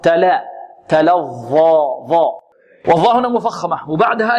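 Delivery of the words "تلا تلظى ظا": thin lam in تلظى, then a heavy ظا; light lam. Shown as a demonstration. Teacher correcting the lam for students, light lam. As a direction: say تلا light and open before the heavy ظا. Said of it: "إذن هنا مرققة".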